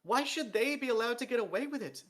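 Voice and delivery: high, loud, strained outburst; snapping, voice breaking. A narrator's reading. Dee snaps at the king, voice breaking with strain. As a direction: snap it out, cracking under strain. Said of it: "Dee snapped, his voice breaking with the strain".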